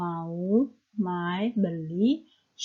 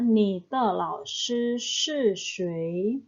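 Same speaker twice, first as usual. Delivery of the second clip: slow, careful Mandarin model read; slow model sentence; much slower than usual. Shown as a demonstration. Teacher reading an example sentence to students, slow and careful. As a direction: spell it out slowly for learners. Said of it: "Yang ketiga".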